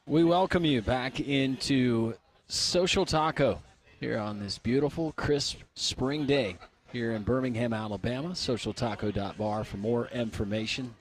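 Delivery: hushed, reverent golf broadcast tone; golf announcer voice. Acted. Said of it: "Doing my best golf voice inflection".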